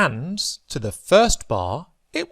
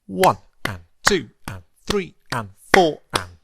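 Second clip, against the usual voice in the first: rhythmic counting. Shown as a demonstration. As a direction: count the quavers in strict even time. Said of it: "This is how they would sound".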